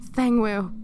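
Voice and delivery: lightly acted tearful call; a touch of sobbing; mild sob. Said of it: "you sob".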